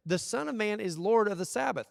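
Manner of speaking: high, loud stress on "Lord"; "Lord" hit high and loud; emphatic proclamation. Retold or imitated. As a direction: proclaim it with authority. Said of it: "Jesus responds with this".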